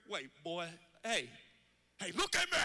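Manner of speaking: stern shout. Retold or imitated. Dad confronts son via mirror.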